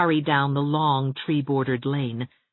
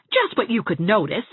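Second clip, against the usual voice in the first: higher-pitched, cutting irony; biting; 7 semitones higher, 4 dB louder than usual. A narrator's reading. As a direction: answer with a sarcastic bite.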